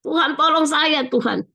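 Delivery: retold tearful plea. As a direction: re-enact a pained prayer for help without real sobbing. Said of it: "Saya menangis dan kata". (menirukan doa memelas sambil menangis)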